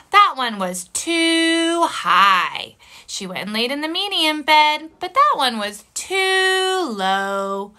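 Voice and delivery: animated read-aloud with gasps and dramatic pauses; storytelling for children. A narrator's reading. Teacher reads story to kids.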